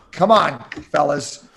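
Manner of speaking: nasal, nose held shut; pinching nose. Shown as a demonstration. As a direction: talk with your nose pinched. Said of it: "without holding my nose".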